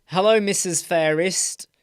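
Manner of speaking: whispered "Hello, Missus Fairest" with a rising end; whispered greeting. Shown as a demonstration. Greeting his listening wife, whispered. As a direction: breathe the greeting to her. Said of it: "That sounds quite nice".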